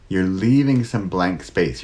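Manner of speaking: slowed right down, spaced out words; unhurried deliberate delivery; slow with pauses. Shown as a demonstration. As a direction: let each word land slowly. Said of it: "how the pauses, the silence".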